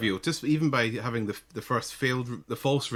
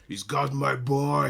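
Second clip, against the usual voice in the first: put-on slow, drawn-out American Swedish accent; lightly imitated American Swedish father; 2 semitones higher, slower than usual. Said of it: "in this kind of American Swedish accent".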